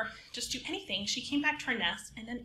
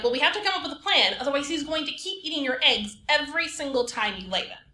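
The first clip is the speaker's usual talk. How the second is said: urgent plan; 5 semitones higher, 6 dB louder, faster than usual. Acted. Rooster urgently proposes a plan.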